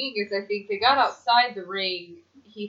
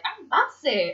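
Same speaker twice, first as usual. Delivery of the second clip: mock proclamation; 6 semitones higher than usual. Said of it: "I'd be like".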